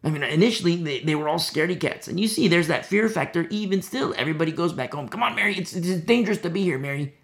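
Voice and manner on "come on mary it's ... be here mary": acted urging, pitched higher; lightly acted plea to come away; urgent coaxing. Disciples urge Mary to flee.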